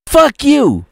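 shrieked high curse at the man; angry scream. Acted. Serafina screaming at Keon in the bar, furious. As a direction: spit the curse at him in rage.

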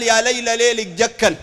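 slow quoted verse; drawn-out line of folk poetry; poem recital. Acted. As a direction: recite it in measured metre. Quoting a Sufi poem line.

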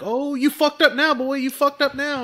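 taunting. Retold or imitated. Bystander taunting from behind camera.

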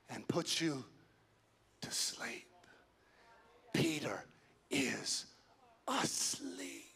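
soft, near-whispered lulling words; very soft, broken by long pauses; hushed. Acted. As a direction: drop to a hush, as if someone is sleeping. Acting out being lulled asleep.

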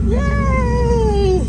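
high, loud joyful yay; excited cheer. Real, not acted. Excited about picking up the dog.

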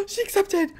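sharp gasp then a high delighted cry; surprised gasp. Real, not acted. Gamer sees the proposal accepted, gasping high.

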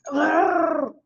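loud, high growling roar from the monsters. A narrator's reading. Reading to children, the monsters growl loudly. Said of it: "glared at, at the magician loudly, said".

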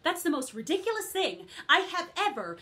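put-upon, ranting character voice; lightly voiced indignant fairy godmother; aggrieved fairy godmother. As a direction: complain about thankless work. Fairy godmother comic monologue.

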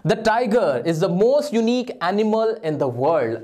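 very slow, word by word reading of the faulty sentence; wrong sentence read slowly. Shown as a demonstration. Teacher slowly reads the faulty exam sentence to students. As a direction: spell out the wrong version slowly. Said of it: "अब इसमें क्या problem है?".

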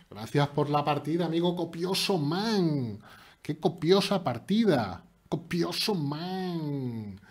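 slow, stretched gleeful call; drawn-out cheer. Real, not acted. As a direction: savor the win. Celebra la victoria. (celebración alargada)

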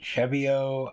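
Cheviot said SHEV-ee-oh, French-style with silent t; "Cheviot" as SHEV-ee-oh, no final t; alternative pronunciation. Shown as a demonstration. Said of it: "however it's pronounced".

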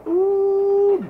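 excited ooh. Real, not acted. Dad excited about his food.

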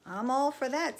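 eager agreement. A narrator's reading. Sam agreeing to move away, eager.

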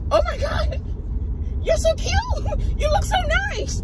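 very high-pitched gushing squeal, imitating her; mock high, squealy compliments; gushing admirer. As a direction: imitate a stranger fawning over an outfit. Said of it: "torn between saying how cute, how nice I look".

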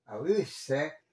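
"ausse" with a and u as separate vowels; broken diphthong. Shown as a demonstration. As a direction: split "ausse" into a-ü-sse. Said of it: "hay que romper el diptongo aquí". (diptongo roto en "ausse")

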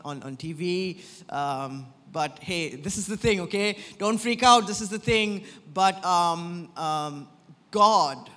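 lightly acted nervous suitor; awkward Hosea. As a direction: play a shy prophet fumbling his words. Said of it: "He's like".

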